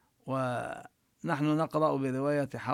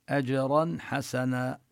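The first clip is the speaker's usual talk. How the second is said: recitation; slower than usual. Shown as a demonstration. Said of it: "حكمها القلقلة".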